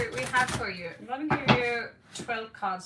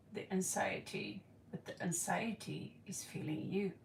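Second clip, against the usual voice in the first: dramatic whisper; 4 semitones lower, 8 dB quieter than usual. Pretend. Dramatic whispered profound line.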